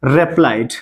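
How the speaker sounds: very slow, drawn out; slow teacher dictation; slow model answer. Shown as a demonstration. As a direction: dictate the reply slowly. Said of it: "teacher models English answer".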